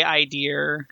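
"I dear" with an r ending; dad's British pronunciation. Retold or imitated. Daughter quoting dad's Britishism, "I dear" with an added r. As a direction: say "I dear" for idea, r on the end. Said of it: "my dad used to say".

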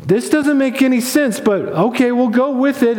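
puzzled, then going along with it; confused angels. Acted. Angels react to Jesus taking on flesh, confused. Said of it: "It doesn't make sense to them".

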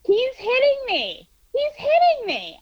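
alarmed yelling to bystanders; retold shouting. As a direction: call out to the street that he's hitting you. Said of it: "I just start shouting".

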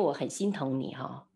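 low, soft consoling voice; retold tender sympathy. Speaker consoling a hurting friend before a hug, tender.

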